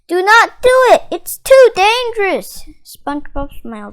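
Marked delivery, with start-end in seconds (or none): 0.1-2.6 higher, louder pleading cry; begging. Acted. Patrick begging SpongeBob not to enter, pleading cry. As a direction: beg him not to go in.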